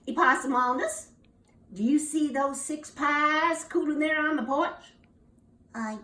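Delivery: lightly voiced mama giving a warning; stern mama. Mama warning her son about the pies, lightly stern.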